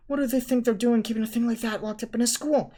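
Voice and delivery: loud, high indignant outburst; outraged. A narrator's reading. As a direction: vent your disbelief. Ron outraged after escaping.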